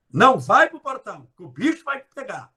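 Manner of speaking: mother's warning. Retold or imitated. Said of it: "Minha mãe falava".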